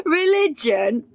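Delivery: slow, rising disbelief on "Religion?"; surprised echo. A narrator's reading. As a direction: ask "Religion?" like it's absurd. Incredulous echo of Gail's question.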